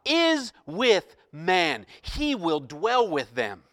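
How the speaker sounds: loud, slow voice from the throne; loud proclamation. Acted. Preacher reading the throne's announcement, loud proclamation. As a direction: declare it with force, stretching the words. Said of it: "I heard a loud voice".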